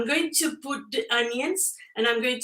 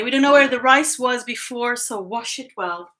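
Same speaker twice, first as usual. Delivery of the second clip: a louder, lightly voiced mom giving advice; mock motherly warning, a bit louder; quoting mom; 2 semitones higher, 6 dB louder than usual. Daughter quoting her mom's rice advice, lightly mimicking. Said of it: "a thing that my mom used to say".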